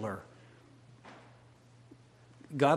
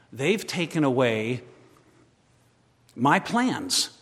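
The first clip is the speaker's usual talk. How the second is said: building from plain to loud, higher cry; rising anguished prayer; 5 semitones higher, 11 dB louder than usual. Acted. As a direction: let the complaint to God swell into a cry. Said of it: "and I can say".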